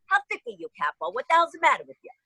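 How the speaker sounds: God voice pitched high, fed up; exasperated God. Retold or imitated. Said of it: "God's probably going".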